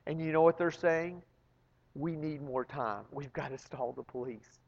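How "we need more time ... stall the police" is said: hushed scheming. Retold or imitated. Robbers whisper plan inside the vault.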